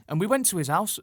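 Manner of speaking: a rough mock Geordie accent; imitated Geordie accent. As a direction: have a go at your guest's Geordie accent. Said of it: "do your accent".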